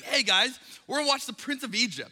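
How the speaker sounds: put-on rally the kids for a movie; excited dad. Dad calling his kids to watch The Prince of Egypt, excited.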